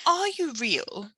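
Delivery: slow, wondering Queen; slow amazed question. A narrator's reading. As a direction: ask slowly, amazed she is there.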